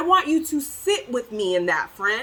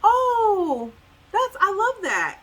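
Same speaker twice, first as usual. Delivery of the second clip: high, breezy mock delight; mock gushing taker; 8 semitones higher, slower than usual. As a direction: imitate someone greedily admiring a gift. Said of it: "this person comes along and says".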